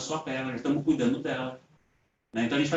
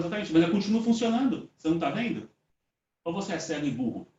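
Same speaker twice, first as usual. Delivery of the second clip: retold insulting retort. Offended spirit challenges the man helping her, indignant. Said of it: "primeira vez que eu sou ofendido".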